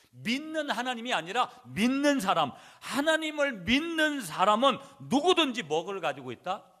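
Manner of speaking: loud, high-pitched sermon emphasis; forceful preaching. Acted. Preacher telling congregation that believers have authority, forceful preaching. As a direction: drive the point home at full force.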